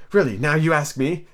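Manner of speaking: understated confusion; very confused. Acted. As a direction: answer uncertainly. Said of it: "said Alice, very much confused".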